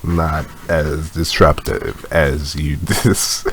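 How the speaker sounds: slow, halting words with a laugh. Real, not acted. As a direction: lose the thread and drag the words out. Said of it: "You immediately slowed down".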